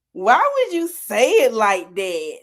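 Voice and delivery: slow, drawn-out mock disbelief. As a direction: stretch it out, acting baffled by their wording. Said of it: "we just look at each other".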